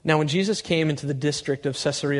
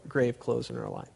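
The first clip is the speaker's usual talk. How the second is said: ordinary talk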